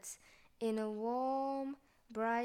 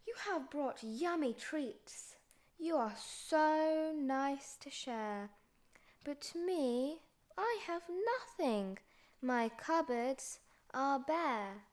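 sad; 3 semitones higher than usual. Acted. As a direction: sadly admit having nothing. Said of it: "Bear sighs and he moans".

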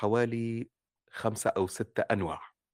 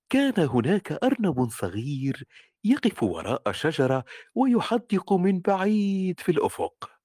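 put-on joyful children's story. Shown as a demonstration. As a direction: tell it like a bedtime tale for kids. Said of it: "الأطفال يجب أن تخاطبهم بفرح".

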